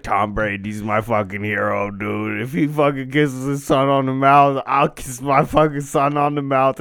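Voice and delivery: put-on loose Boston accent, stoned swagger; lightly put-on Boston bro voice. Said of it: "But I was doing this Boston accent".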